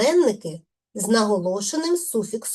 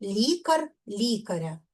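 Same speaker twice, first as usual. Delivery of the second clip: Лікар, лікаря stressed on first "лі"; stress on root; 4 dB quieter than usual. Shown as a demonstration. Teacher demonstrating unstressed suffixes, stress on root. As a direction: stress the first syllable, letting the rest of Лікар, лікаря fall away. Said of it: "Наголос так само падає на корінь".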